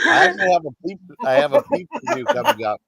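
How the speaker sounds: high, bright burst of news; excited announcement. Real, not acted. Telling the stream about an upcoming Peeps review, excited and high. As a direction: blurt it out eagerly.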